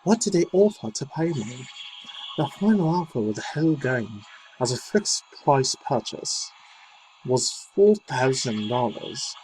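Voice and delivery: reading her statement in an imitated British accent; mock British accent. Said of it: "I was doing a British accent".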